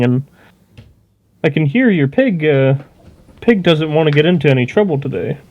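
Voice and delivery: lightly voiced smooth-talker easing a standoff; a touch of in-character negotiation, talking someone down; placating player character. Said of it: "I'll just say".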